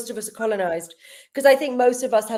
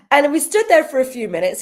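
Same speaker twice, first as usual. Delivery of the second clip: laughing; 4 semitones higher, 5 dB louder than usual. Real, not acted. Laughing while retelling.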